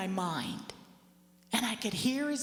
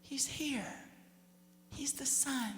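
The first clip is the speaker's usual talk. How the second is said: softer, gentle mother's answer; soft reply; 4 semitones higher, 8 dB quieter, slower than usual. Retold or imitated. Mother quietly answering her daughter in heaven, soft. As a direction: tell her gently that he is here. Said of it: "She goes".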